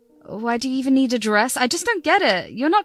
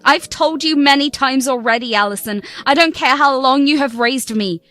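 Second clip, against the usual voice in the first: cold refusal. Acted. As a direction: shut the door in her face. Bride refusing stepmother the wedding.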